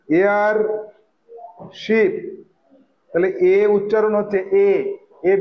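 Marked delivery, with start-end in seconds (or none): 0.1-2.1 এয়ার held, long pause, then শিপ; sounding out. Shown as a demonstration. Teacher showing how the word is pronounced, widely split. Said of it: "উচ্চারণটা দেখো এয়ার".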